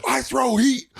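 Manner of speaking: high-pitched mock yell as a ballplayer; half-yell it like a hothead pitcher introducing himself; hammed-up yelling impression; imitated yelling. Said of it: "He was just, like, yelling it".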